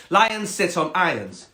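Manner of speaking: high snooty cat answer; snobby cat. Acted. Cat answering the frog, snobby and high. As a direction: state the rule snobbily. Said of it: "quite a snobby cat".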